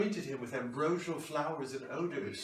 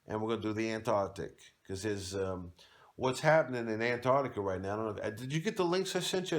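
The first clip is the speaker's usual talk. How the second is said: lightly voiced eager Toby Young on the phone; a gushing caller pitching a tour; a hint of a chummy Toby Young; Toby Young impression; 2 semitones lower than usual. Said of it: "personal phone call between Toby Young".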